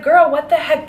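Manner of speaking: high-pitched, incredulous protest; mock indignation. Coworker reacting to the paper thief, mock indignant.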